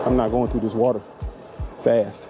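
winded while pedaling; out of breath. Real, not acted. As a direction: talk short of breath. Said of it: "I'm out of breath".

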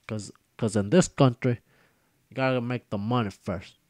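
lightly voiced gangster with a hint of Mexican accent; a tough guy bragging to his buddy, mildly put-on; Scarface. The YouTuber's gangster buddy talks to viewers, lightly acted. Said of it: "I got my buddy Scarface over here".

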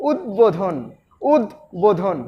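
উদ্বোধন in two parts, উদ then বোধন; model pronunciation. Shown as a demonstration. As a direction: say উদ্বোধন with a break before বোধন. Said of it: "এভাবে উচ্চারণ করতে হবে". (উদ-বোধন, দুই ভাগে উচ্চারণ)

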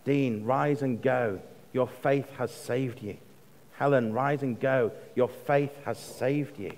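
slow, tender call by name; gentle personal blessing. Retold or imitated. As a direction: bless them one by one, gently. Addressing congregation members by name.

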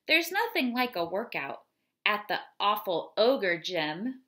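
lively, rhythmic read-aloud of a silly poem; poem reading to children. Acted. Teacher reading a funny ogre poem to the class, lively read-aloud. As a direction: bounce through the verses for the kids.

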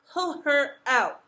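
loud, slow, high command; each word hit hard and stretched; barked order. A narrator's reading. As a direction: order the servants with royal force. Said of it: "ordered the king".

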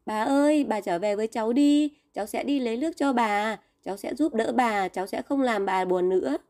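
reach out to her across the stream; calling out pleading. Acted. Boy calls the bird at the stream, pleading call. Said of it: "Tích Chu gọi".

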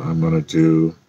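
usual speaking voice

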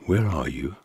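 a soft, gentle call, not to frighten; softly coaxing, like a parent to hiding children; called out gently. Acted. God calling to the hiding man and wife, gently. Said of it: "called out gently".

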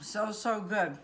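talking with a mouthful; words around a bite of food; mouth full. Real, not acted. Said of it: "I don't like to talk with my mouth full".

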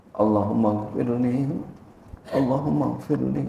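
suara lebih pelan, baca lambat; pelan dan lirih. Shown as a demonstration. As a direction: lirih seperti doa dalam hati. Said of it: "bacanya pelan-pelan, baik-baik". (contoh membaca doa sholat dengan pelan dan lirih)

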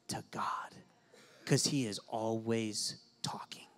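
slow breathy sermon whisper; whispered emphasis. Acted. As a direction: draw them in with a whisper. Preacher dropping to a whisper.

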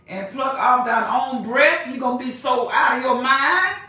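fiery preaching cadence; scripture reading. Acted. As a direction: build the verse to a proclamation. Preacher reads scripture aloud.

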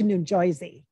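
put-on "Joisey" New Jersey accent; loud mock New Jersey pronunciation. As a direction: slip into New Jersey on the name. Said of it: "like, Jersey Mike".

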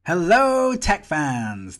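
high, loud hello; loud greeting. Acted. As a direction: call out a big cheery hello. Loud greeting opening the review.

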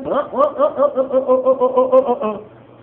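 high, loud repeated oh; excited cheering. Real, not acted. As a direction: whoop with real joy. Celebrating the prize.

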